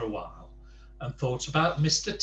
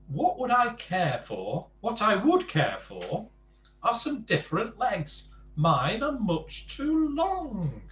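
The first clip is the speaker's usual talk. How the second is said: gloomy Mister Tall; 7 semitones higher than usual. Acted. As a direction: moan about the legs. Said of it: "replied Mister Tall".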